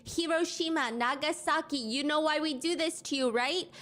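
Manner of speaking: high, mock-angry yelling in a retold voice; imitating a screaming rant. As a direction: ham up the ranting stranger on the train, pitched high. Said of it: "Then he starts screaming on the train".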